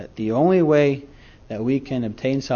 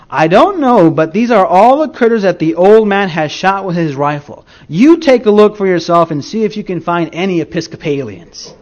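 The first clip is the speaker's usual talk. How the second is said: put-on old southern lady; 3 semitones higher, 7 dB louder than usual. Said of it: "in her deep southern drawl, and I will not try to imitate it".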